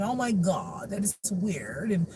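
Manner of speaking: mock their drawn-out exclamations; a hint of affected disdain. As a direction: lightly imitate a snooty critic. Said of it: "to talk like this".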